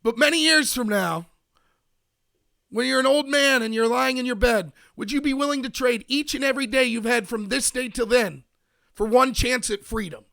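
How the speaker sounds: rally the troops like William Wallace, but only half-hearted; stirring freedom speech, a touch hammed-up; Braveheart rallying speech. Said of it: "my Braveheart speech".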